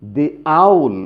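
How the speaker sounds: "the owl" with "the" said as "dee". Shown as a demonstration. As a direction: say "dee" before the vowel in "the owl". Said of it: "কেন দি, দা কেন নয়?". ("the owl"-এ the-এর উচ্চারণ "দি")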